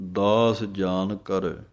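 slow, with a pause after ਕਰ; ਦਾਸ ਜਾਨ ਕਰ drawn out, then a stop. Shown as a demonstration. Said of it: "ਇੱਥੇ ਵਿਸਰਾਮ ਹੈ".

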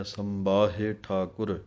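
ਸੰਬਾਹੇ with a firm, tight nasal ਸੰ; firmly voiced tippi. Shown as a demonstration. Teacher shows students the tight tippi in ਸੰਬਾਹੇ. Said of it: "ਕੱਸ ਕੇ ਆਵਾਜ਼ ਦੇਣੀ ਹੈ".

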